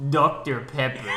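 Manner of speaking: slow, mock Russian accent. Friend imitating another friend's line, Russian accent. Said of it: "he said in a Russian accent".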